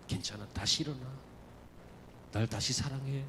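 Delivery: soft, low, loving voice; tender Jesus. Acted. Jesus restoring Peter, soft and low, tender. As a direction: speak like a gentle master forgiving. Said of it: "알고 있어".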